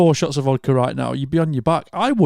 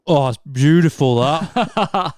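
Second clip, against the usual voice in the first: put-on drunk delight; much slower than usual. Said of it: "and you go".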